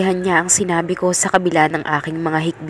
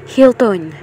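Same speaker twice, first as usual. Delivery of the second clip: exclaiming; 6 semitones higher, 4 dB louder than usual. A narrator's reading. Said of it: "he exclaimed".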